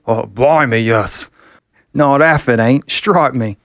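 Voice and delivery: lightly voiced Cockney man agreeing; a hint of a broad English working man; Cockney English accent. Allen backing up his pretend wife, light Cockney accent. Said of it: "thick English accents".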